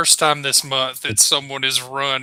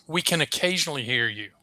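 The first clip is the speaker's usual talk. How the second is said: positive phrasing; 3 dB quieter, faster than usual. Shown as a demonstration. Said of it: "phrasing it like this".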